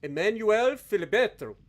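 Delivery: a lightly hammed Italian accent on "Emanuele Filibetto". Streamer reading out a ship name to chat, mock Italian accent. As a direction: roll out "Emanuele Filibetto" like a proud Italian, a bit overdone. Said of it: "with the best Italian accent I could possibly muster".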